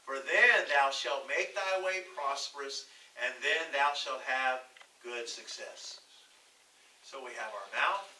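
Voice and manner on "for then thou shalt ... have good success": slow, measured Bible reading; preacher reading out scripture. Acted. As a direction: read the verse out slowly and firmly. Reads scripture aloud.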